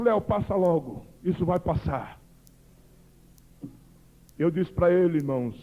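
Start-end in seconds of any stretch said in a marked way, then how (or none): 0.0-2.2 soothing coach. Retold or imitated. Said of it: "colocou a mão nos meus ombros e disse".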